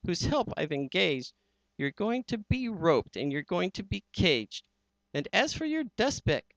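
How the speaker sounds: high, gloating villain voice; hammed-up storybook bad guy; menacing villain. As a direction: sneer the threat with glee. Villain voice in Seuss reading.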